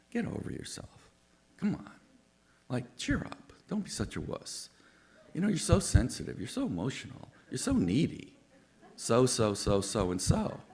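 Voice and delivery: mock nagging voice, jumping high; imitating critics who belittle you; high, mocking scold; scolding people. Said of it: "'Cause people go".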